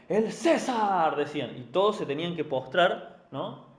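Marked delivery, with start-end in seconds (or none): 0.1-1.1 slow, drawn-out proclamation, louder and higher; herald's cry. Retold or imitated. Heralds before Caesar's carriage calling out, slow loud proclamation. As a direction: announce Caesar like a herald clearing the road. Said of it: "voceros que decían".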